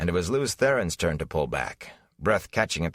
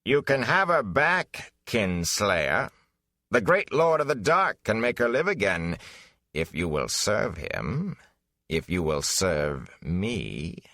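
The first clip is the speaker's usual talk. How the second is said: tempting villain; 2 semitones higher than usual. Acted. Dark lord's servant tempting the grieving hero, silky and slow. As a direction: dangle her life before him. Betrayer tempts Lews Therin.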